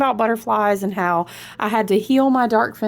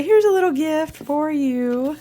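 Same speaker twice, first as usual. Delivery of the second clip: slow, higher, lightly voiced gift giver; ancestors' voice; 7 semitones higher than usual. Lightly voicing her ancestors offering a gift, slow. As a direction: hand over a gift, gently and slowly. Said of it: "My ancestors say".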